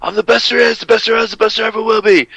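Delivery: lightly imitating a monotone catchphrase; Bret Hart monotone.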